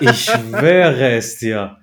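drawn out, laughing; mock solemn oath; slow mock-serious oath. Real, not acted. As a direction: swear it slowly with a grin. Cohost joking he swears it.

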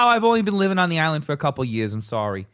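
quick excuse in a put-on Long Island accent. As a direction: apologize like a Long Island newcomer. Resumes the accent as a jokey excuse.

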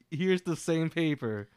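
slow, deliberate front-desk request; strained patience. Acted. Desk worker to a returning yelling customer, strained patience. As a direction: spell it out slowly, patience wearing thin.

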